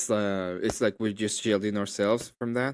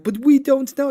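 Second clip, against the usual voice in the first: mock whiny opponent; 9 dB louder than usual. Opponent's reply in retold argument.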